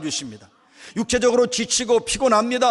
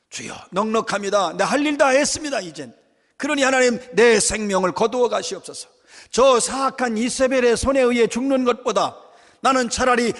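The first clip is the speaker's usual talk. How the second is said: a touch of Elijah's anguished plea, slightly raised; anguished outcry. Acted. Elijah, exhausted, crying out to God to take his life, mildly anguished. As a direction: pour out a weary prayer begging God to take his life. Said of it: "아주 절규하고 있습니다".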